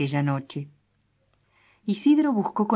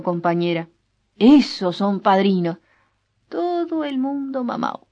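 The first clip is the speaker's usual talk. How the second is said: put-on drunk rambling; 4 semitones higher, 4 dB louder than usual. Drunk husband rambling at wake.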